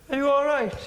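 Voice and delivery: high, small mimicked concern; little voice. Audience member at the back checking on the comic, little voice. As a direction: pipe up in a tiny high voice. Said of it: "when the voice went".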